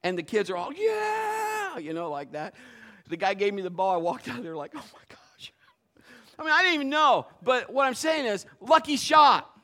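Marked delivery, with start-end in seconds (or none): 0.7-1.8 high loud cheer. Retold or imitated. Kids cheering after the pastor's lucky shot. 4.7-5.5 whispered awe; astonished whisper. Retold or imitated. Pastor whispering his amazement after the shot.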